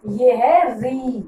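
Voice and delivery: री drawn out slowly with a clear ee vowel, not रा; री said slowly, the ee vowel held long; slowly spelled out. Shown as a demonstration. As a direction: stretch री slowly so the class hears the vowel. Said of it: "रा नहीं है".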